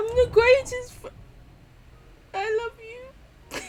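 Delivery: touched by a kind message; choked up. Real, not acted. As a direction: voice catching with emotion.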